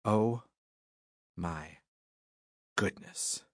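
dropping to a faint whisper; breathless whisper. Acted. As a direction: gasp it out, spent. Reader exhausted after noises.

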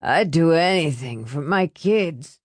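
acted weepy, wobbling wail; bursting into tears. A narrator's reading. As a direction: draw it out as if crying. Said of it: "He burst into tears".

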